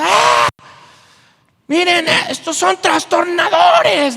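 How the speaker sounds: high, loud shrieking voice; possessed girl shrieking. Acted. Possessed girl shrieking at Paul and Silas, high loud shriek. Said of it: "esta niña estaba gritando".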